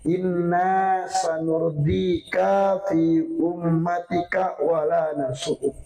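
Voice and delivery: very slow, measured recitation; Arabic recitation. Retold or imitated. Preacher recites Allah's message to Muhammad, very slow measured recitation. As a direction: stretch out each syllable evenly.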